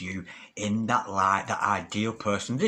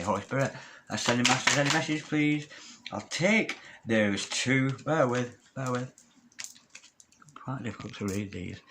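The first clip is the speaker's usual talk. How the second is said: usual speaking voice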